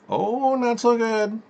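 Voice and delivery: very high slow squeaky puppet voice; Awesome Carl, slow and sad. Pretend. Awesome Carl tells the host he is not doing well, mopey. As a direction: drag it out like a moping cartoon.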